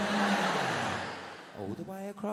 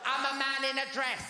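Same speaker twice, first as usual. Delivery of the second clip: higher, louder panicked fluster; 7 semitones higher, 4 dB louder than usual. Retold or imitated. Meeting the Queen in a dress, higher panicked fluster. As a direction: flap about what to do, rising panic.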